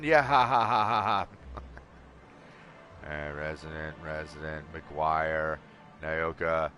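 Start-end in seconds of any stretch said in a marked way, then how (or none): 0.0-1.4 loud laughing. Real, not acted. Laughing at himself.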